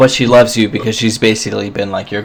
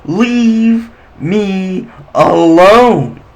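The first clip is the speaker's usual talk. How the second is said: frightened pleading; 12 semitones higher, 6 dB louder, much slower than usual. Acted. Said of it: "he's like".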